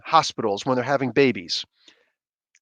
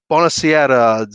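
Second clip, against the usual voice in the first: Italian greeting; 5 dB louder than usual. Retold or imitated. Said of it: "says something in Italian".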